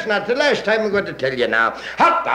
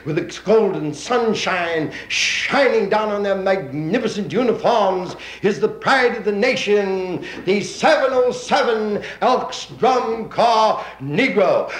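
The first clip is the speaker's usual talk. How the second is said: announcer slowing down for a grand introduction; parade announcer. Acted. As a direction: draw out the big name. Announcer introduces the drum corps.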